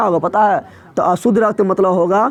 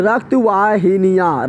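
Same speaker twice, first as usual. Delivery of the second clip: रक्त वाहिनियाँ drawn out very slowly, syllable by syllable; slow, spelled-out repeat; much slower than usual. Shown as a demonstration. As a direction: stretch out रक्त वाहिनियाँ so the class can copy it. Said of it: "क्या बोल रहे हैं?".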